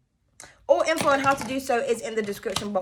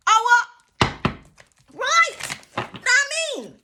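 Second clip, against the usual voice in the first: laughing squeal; 11 semitones higher, 3 dB louder, much slower than usual. Real, not acted. Laughing at her own rant.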